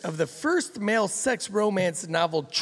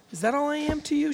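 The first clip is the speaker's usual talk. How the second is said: higher, fast, mock choked-up plea; choked-up wife; 8 semitones higher, faster than usual. Narrator voicing the wife in the novel, high mock choked-up plea. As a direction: play her small and hurt, hammed up. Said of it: "she asks, choked up".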